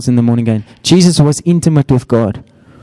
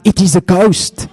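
high mock cry of panic; a half-hearted retold scream; 6 semitones higher than usual. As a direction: squeal it like frightened fishermen. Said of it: "They scream out".

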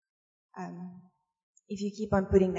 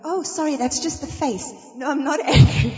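laughing apology; 5 semitones higher, 7 dB louder than usual. Retold or imitated. Mom's apologetic retort, laughing.

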